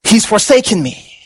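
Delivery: gasp, then halting dismay with long pauses; acted shock at being abandoned, lightly dramatized; stricken realization. Preacher voicing Jesus realizing he is forsaken, stricken and halting. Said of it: "It's like he realizes".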